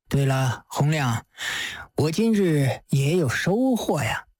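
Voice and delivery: 沉稳低声的狄公; Judge Dee. Acted. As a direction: speak as a shrewd old judge, amused. Judge Dee voiced by narrator.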